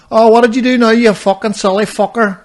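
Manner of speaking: high, scolding mock jeer; mocking acquaintances. Everybody jeering about the brace, mocking scolding. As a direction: start high and loud, drag out the insult. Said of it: "everybody goes like".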